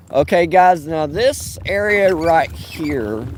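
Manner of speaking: shaken voice over bumps; on a bumpy road. Real, not acted. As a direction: talk while jolting over bumps. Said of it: "I'm sorry about the bumps".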